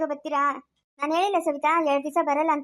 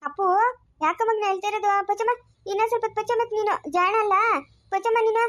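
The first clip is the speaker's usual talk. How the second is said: put-on baby talk; 5 semitones higher than usual. Mother cooing to the baby.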